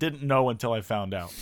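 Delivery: mocking own words with a laugh; laughing mockery. Shown as a demonstration. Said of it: "I just said".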